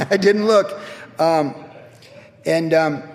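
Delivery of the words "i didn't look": sheepish laugh. Real, not acted. Admitting fault, laughing.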